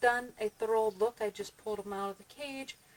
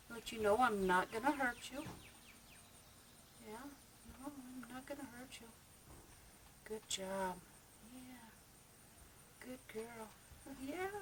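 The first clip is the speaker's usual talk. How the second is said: soothing a rabbit; 10 dB quieter than usual. Real, not acted. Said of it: "the tone of my voice will help them, uh, relax".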